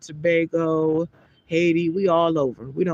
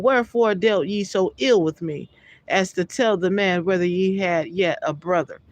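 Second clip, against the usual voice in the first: raised, measured Bible reading voice; scripture reading. Acted. Preacher reading Genesis aloud to his listeners, solemn. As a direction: read the verse out with solemn weight.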